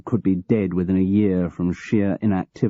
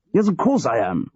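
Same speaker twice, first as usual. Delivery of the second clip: testily; 6 semitones higher than usual. Acted. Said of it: "George replied testily".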